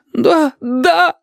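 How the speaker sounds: high, sobbing, pleading; sobbing yes. A narrator's reading. Yurik begs the thugs to believe he is a student, sobbing high. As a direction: blurt it through sobs, hoping to be saved. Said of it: "всхлипывая".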